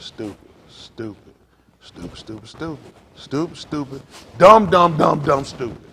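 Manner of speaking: mocking chant swelling from a whisper to a yell; whisper building to shout. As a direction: start hushed, then explode on dumb. Chanting stupid to mock spenders.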